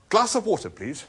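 high, loud start, dropping on please; strained order. A narrator's reading. Arthur ordering only water, strained. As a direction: order high, then fall away.

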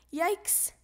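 brief startled cry; alarmed yelp. A narrator's reading. Froggy stuck to flying ball.

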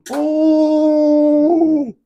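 sharp high yelp of surprise; a sudden startled "Oh!" at the board; surprised cry. Real, not acted. Darts miss, sudden exclamation.

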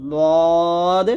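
long heavy "দদ", tongue edge on upper molars; thick, from tongue side. Shown as a demonstration. Teacher separating two heavy letters, long thick "দদ". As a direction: press the tongue side and hold "দদ". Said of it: "জিহ্বার গোড়ার কিনারা".

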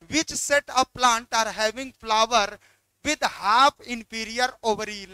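reading the question out very slowly; slow, deliberate exam-question read. Acted. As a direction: spell out each word of the question.

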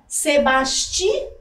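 Sebastião broken up, long final ÃO after a pause; stress on final syllable. Shown as a demonstration. Teacher shows the class the last syllable, Sebastião drawn out on ÃO. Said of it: "na última sílaba".

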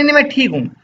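a small boy pretending to be fine; child's voice. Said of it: "पर वो बार-बार बोल रहा है". (बुखार में बच्चा ज़िद करता है कि वह ठीक है, ऊँची बच्चे की आवाज़)

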